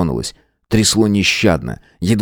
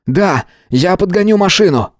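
higher, quick urgent call; urgent eagerness; 11 semitones higher than usual. A narrator's reading. Matvey urgently offers to bring the car. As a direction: rush to act.

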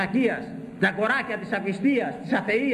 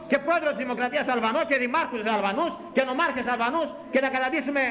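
rapid, higher, heated warning; fast fiery warning; 5 semitones higher than usual. Real, not acted. Preacher warns the flock of Albanian rule, fast and heated. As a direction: rush it out in alarm.

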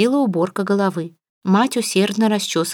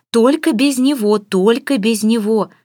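raised pleading cry; young woman pleading; 4 semitones higher, 5 dB louder, slower than usual. A narrator's reading. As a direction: beg from behind the curtain, loud. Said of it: "заговорила Саняша из-за алькова".

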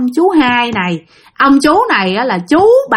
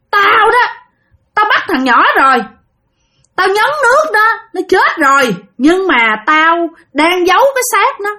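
possessed aunt's eerie voice; 7 semitones higher than usual. Retold or imitated. Spirit confesses to the family it took the boy, eerie possessed voice. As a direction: speak as a spirit through a possessed body. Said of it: "ồm ồm, nghe thấy ghê lắm".

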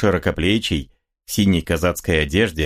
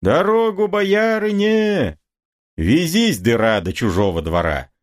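calling out; 10 semitones higher than usual. Acted. Crowd clearing the way for boyarina.

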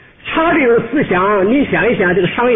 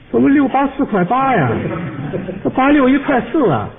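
higher-pitched, acted disbelief; puzzled protest; 5 semitones higher than usual. Customer catching the clerk's wrong sum, puzzled protest. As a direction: query it with raised pitch.

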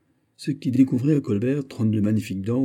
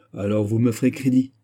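faint irony; 2 semitones higher, 4 dB louder than usual. Acted. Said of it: "avec son imperceptible ironie".

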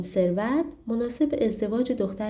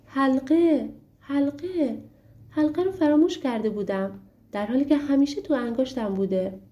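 excited cry; 5 semitones higher than usual. Acted. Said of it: "علایالدین فریاد زد".

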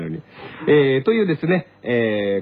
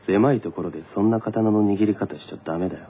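impression; 6 semitones lower, 3 dB quieter than usual. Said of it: "それはモノマネか？".

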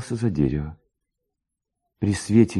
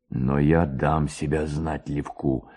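lower, slow, menacing man's voice; the tall stranger vowing revenge, low and slow; menacing low threat; 7 semitones lower, slower than usual. A narrator's reading. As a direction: let the threat sink in slowly.

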